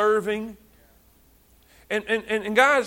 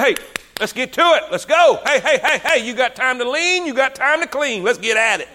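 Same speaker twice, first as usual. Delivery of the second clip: pushy fixer. Retold or imitated. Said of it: "I'm a fixer".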